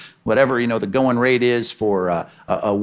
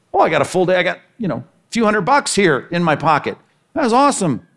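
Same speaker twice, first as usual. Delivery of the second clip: excited worker; 4 semitones higher than usual. Acted. Late worker thrilled with full pay.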